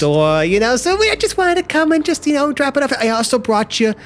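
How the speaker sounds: high, sugary small talk; lightly high cloying chatter; sweet neighbour voice. Acted. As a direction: fuss sweetly over the packages. GM voices Gloria delivering mail.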